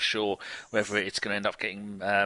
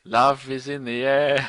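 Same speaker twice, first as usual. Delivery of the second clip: laughing tease; 5 dB louder, slower than usual. Real, not acted. Teasing about shout-out to partner.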